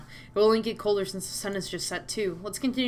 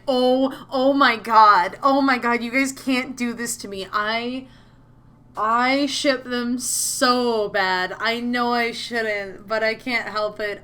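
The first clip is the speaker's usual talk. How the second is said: loud, drawn-out gushing; fangirl outburst; 2 semitones higher, 6 dB louder, much slower than usual. Real, not acted. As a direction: wail it slowly, helplessly smitten with the pairing. Gushing over a favourite pairing.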